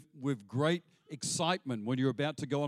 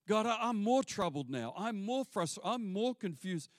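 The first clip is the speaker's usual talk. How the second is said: higher, stress on more; troubled prophet; 7 semitones higher than usual. Retold or imitated. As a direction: lean on each more. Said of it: "Habakkuk speaking".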